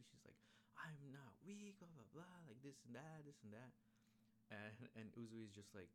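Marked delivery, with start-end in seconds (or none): 0.7-3.7 mock pouting fit. Demon girl protests being called weak, mock pouting whine. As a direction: mimic a pouty tantrum, pitch way up. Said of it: "She starts making a fit".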